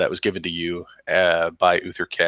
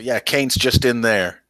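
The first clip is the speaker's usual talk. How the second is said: captain's voice; 4 semitones higher than usual. Acted. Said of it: "but they say".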